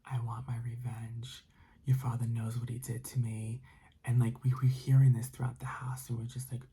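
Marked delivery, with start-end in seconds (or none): 0.0-3.6 understated eerie, breath-heavy moan; moaning ghost. Acted. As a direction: give a hint of a haunting spirit seeking revenge. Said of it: "hearing more moans and more moans".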